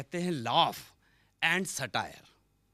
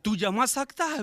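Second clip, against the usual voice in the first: excited uncle; 7 semitones higher than usual. Retold or imitated. Uncle to the poet about the stacked boxes, amazed.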